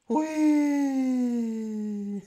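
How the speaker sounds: loud, high whoop of joy; gleeful whoop. Real, not acted. Celebrating finishing third.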